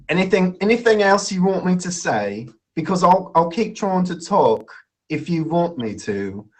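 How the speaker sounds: attempted English accent in chat. Shown as a demonstration. Host trying to talk on in an English accent. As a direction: keep talking in a put-on English accent. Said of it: "I'll do an English accent".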